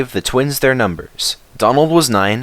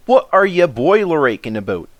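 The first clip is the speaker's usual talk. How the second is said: scoffing Duck; 6 semitones higher than usual. A narrator's reading. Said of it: "asked Duck".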